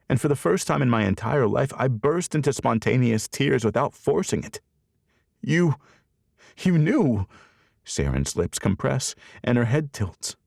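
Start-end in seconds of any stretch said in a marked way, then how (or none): 5.4-7.3 shocked disbelief. Acted. Tears, shocked at news.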